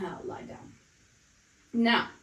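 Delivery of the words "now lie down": very soft, mostly breath; breathy cue. Shown as a demonstration. Pilates instructor ending the last repetition, breathy and very soft. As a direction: let the cue out on spent breath.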